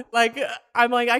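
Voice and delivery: loud laugh spilling into words; high laughing burst at the absurd sight; real laughter. Real, not acted. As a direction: laugh through the start of the sentence. Laughing at so many limbs.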